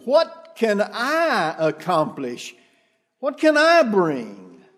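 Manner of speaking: "I" stressed in "What can I bring?"; self-doubting, leaning on "I"; humble, stressing I. Shown as a demonstration. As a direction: plead it humbly, hitting "I". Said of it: "In other words".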